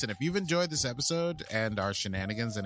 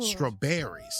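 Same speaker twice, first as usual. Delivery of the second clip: put-on southern accent; 3 semitones higher, slower than usual. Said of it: "So there's my normal".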